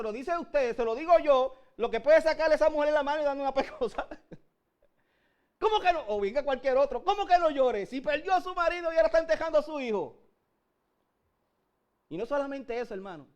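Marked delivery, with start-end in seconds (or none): 5.6-10.2 indignant mother. Retold or imitated. Mother voiced indignant at the command.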